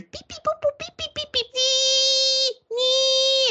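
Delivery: high-pitched electronic beeps and long squeals; imitated detector beeps. Teller mimics beeps heard on the first floor, high electronic beeping. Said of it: "all I hear is".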